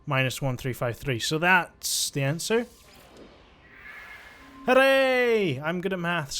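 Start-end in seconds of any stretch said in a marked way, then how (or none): 4.7-5.6 high, loud drawn-out cheer; celebratory cheer. Real, not acted. Gamer celebrating solving the maths puzzle, high drawn-out cheer. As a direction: cheer your own small victory.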